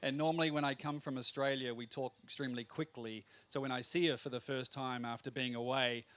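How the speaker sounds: ordinary talk, nothing marked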